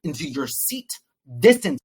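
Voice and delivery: firm order, bursting loud on the final word; mock shouted command; retold shout. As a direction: order them off, punching out GO. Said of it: "I shouted it in church".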